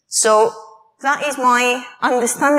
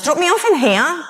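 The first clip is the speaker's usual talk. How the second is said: put-on child's request; 6 semitones higher than usual. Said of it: "my child says".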